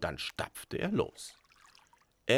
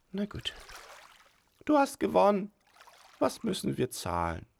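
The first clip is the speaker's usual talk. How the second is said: giggly sneering imp; 12 semitones higher than usual. A narrator's reading. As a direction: play it like a sulky imp. Teufelchen concedes.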